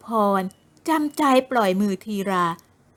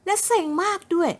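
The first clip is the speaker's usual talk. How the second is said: higher, slow, sulky whine; sulky young woman; 8 semitones higher, slower than usual.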